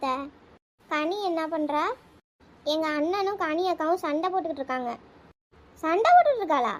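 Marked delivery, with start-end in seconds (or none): 5.8-6.7 louder, higher startled ask; surprised question. Acted. Aunt hears the kids are fighting, surprised. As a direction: jump on the news in surprise.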